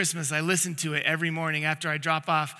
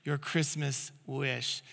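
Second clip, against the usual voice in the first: DJ announcement; 4 semitones lower, 6 dB quieter, slower than usual. Retold or imitated. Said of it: "the D Js do this every single time".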